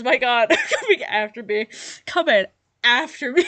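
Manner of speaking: giggling disbelief; laughing. Real, not acted. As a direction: laugh between the words. Roasted again, repeats the line.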